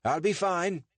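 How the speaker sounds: lightly voiced British accent, pitched high; put-on British accent. A narrator's reading. Richard waving off a passer-by, put-on British accent. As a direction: brush him off in a feigned British accent. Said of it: "conjured up his British accent again".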